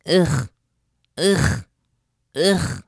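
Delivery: imitated toddler groans; toddler grunts. Toddler refusing food, imitated grunts. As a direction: grunt like a fussy baby. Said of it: "That's all she says".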